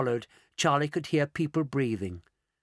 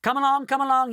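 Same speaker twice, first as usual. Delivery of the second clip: higher, louder call for attention; 10 semitones higher, 4 dB louder, faster than usual. A narrator's reading. Mister Wonka rounding up everyone, calling out higher and louder. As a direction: call the group to hurry along. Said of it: "he called out".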